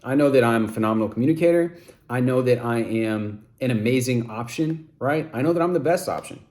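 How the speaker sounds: firm, certain, no room for doubt; authoritative conviction. Shown as a demonstration. Coach demoing a confident self-affirmation with authoritative conviction. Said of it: "That's that authoritative conviction".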